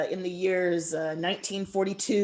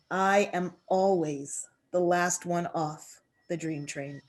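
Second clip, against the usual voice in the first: poem reading. Acted. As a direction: let each image land, unhurried.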